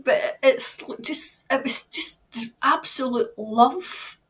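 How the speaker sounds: slow, breathy and moved; moved, tender. Real, not acted. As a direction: linger on each word, overcome. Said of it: "I'm absolutely shaking".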